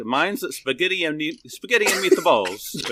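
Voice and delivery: lightly hammed-up Italian lilt on the dish; Italian accent. Baiting a scam caller about dinner, mock Italian accent.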